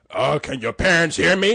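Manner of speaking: deep, rumbling, ground-shaking giant robot voice. Mocking a giant robot talking to a family: giant robot earthquake voice. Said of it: "it's like a earthquake voice".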